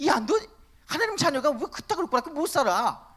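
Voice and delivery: mock sneering taunt, lightly voiced; a hint of a scornful God jeering at his children; mocking scold. Preacher imagining a mocking God taunting believers, a light sneer. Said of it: "이렇게 조롱하거나".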